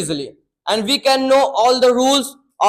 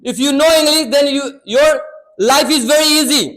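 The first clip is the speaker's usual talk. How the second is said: motivational tone; 3 semitones higher than usual. Shown as a demonstration. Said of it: "keep a great tonality in your voice".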